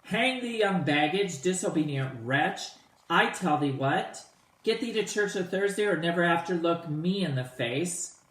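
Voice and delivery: raging father, opening on a high outburst; father going off. Acted. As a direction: read it like a furious father blowing up at his daughter. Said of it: "And Capulet just goes off".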